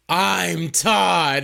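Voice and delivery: retold movie scream, held back; mock scream. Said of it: "just screaming".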